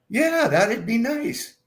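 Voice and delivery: put-on giddy old lady. Voicing giddy mother.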